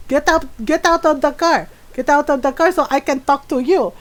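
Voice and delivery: lightly acted angry shout; mock yell. Mom yelling at the driver to get out, a mild mock yell. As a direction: order him out of the car. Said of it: "my mom is yelling".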